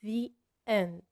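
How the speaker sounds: "the" said as "thee" before "end". Shown as a demonstration. Teacher showing "the" before a vowel sound, clearly. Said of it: "فهتقول".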